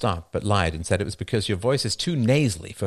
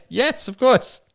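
high squeaky nerd voice; 13 semitones higher, 4 dB louder, slower than usual. Acted.

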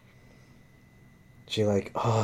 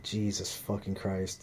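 slow, soft exasperated mutter; 6 dB quieter, slower than usual. Retold or imitated. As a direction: mutter it walking out the door. Walking out, exasperated.

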